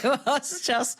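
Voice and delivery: real laugh breaking through the words. Real, not acted. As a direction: laughs despite herself, slow. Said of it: "I don't know why I'm laughing".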